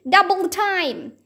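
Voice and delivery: high urgent shout; shouted urging. Acted. Jack shouting to Annie while running. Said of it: "Jack shouted to Annie".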